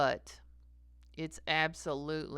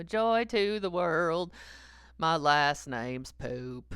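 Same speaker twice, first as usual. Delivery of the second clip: giggling mock quote; slower than usual. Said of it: "you know".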